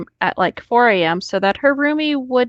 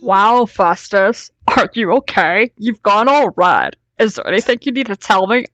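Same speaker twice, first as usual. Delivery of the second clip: mock teasing. Reading a character's teasing lines.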